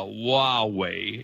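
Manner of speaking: Huawei drawn out as WAH-way; correct Huawei pronunciation. Shown as a demonstration. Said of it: "the apparent correct pronunciation".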